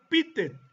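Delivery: Pitet as the Chinese form of Pedro; Chinese pronunciation. Shown as a demonstration. Lecturer listing Pedro in other languages, Chinese pronunciation Pitet. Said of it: "en chino se pronuncia".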